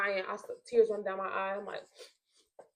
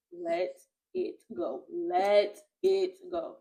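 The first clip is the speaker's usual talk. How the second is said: drawn out; much slower than usual. Retold or imitated. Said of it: "she kept repeating it".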